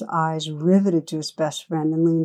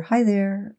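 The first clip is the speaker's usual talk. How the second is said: a lightly voiced, higher gleeful hello; baby laughing answer; 4 semitones higher than usual. A narrator's reading. Narrator voicing Eric answering the old man, gleeful. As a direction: answer back like a delighted baby. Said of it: "Eric continued to laugh and answer".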